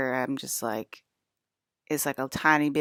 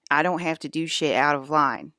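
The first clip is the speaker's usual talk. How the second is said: getting angry; 4 dB louder than usual. Real, not acted. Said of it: "I'm getting angry".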